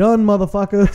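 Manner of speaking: loud, cocky, triumphant gloating. Retelling turning to the people in line: imitating own triumphant gloat. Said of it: "Like that".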